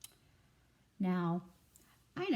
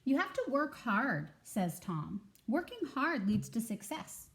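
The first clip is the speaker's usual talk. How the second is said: coaching goat; 4 semitones higher than usual. Acted.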